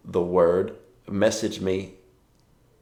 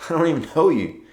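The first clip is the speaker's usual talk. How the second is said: higher, laughing through the words; laughing disbelief; 7 semitones higher, 5 dB louder, faster than usual. Retold or imitated. Amused laughing retort to a stranger. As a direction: pastor laughing at a man mad at him.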